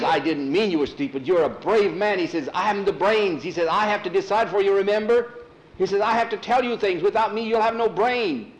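high, loud, frantic reasoning; pleading master. Acted. Skull pleading with Thor for his life, frantic. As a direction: talk fast to win him back.

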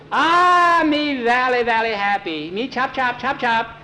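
high squealing character voice in broken English; excited cook. A narrator's reading. Cook rushes out to greet the boys, excited. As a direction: open on a loud squeal, then chatter high.

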